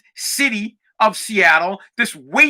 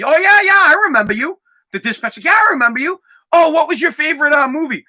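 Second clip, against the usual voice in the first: higher, eager feigned recognition; mock enthusiasm; 5 semitones higher, faster than usual. Imitating a dispatcher leading on an actress, mock enthusiasm. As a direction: play along like a starstruck fan, lightly hammed-up.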